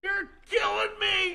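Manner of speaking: high, slow, loud yell of "You're killing me!"; boisterous drawn-out yell for effect. Shown as a demonstration. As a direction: belt it out again, drawing out the words. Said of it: "Do it again and watch the lights".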